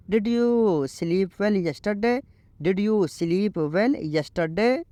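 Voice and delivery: very slow, each English word laid out clearly; slow teaching read. Shown as a demonstration. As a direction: model the sentence slowly for learners. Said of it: "आप इसको English में बोलो".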